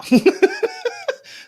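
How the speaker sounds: very high, relieved burst of laughter; squealing relieved laugh. Real, not acted. Laugh after audio fix.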